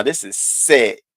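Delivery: slow, drawn-out impression of Lemon; lightly voiced Lemon, slow and deliberate; imitating Lemon. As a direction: stretch each word like Lemon would. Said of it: "I can hear him now".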